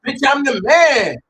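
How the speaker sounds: shouted out high and loud; mock shouted boast. Fan retelling a rapper's line, shouted high and loud. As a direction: boast it like you own the room.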